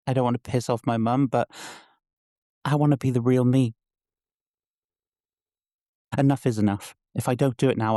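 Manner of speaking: understated despair building to defiance; a trapped character working up courage to break away; distressed young Fern. Acted. Performs own monologue as Fern.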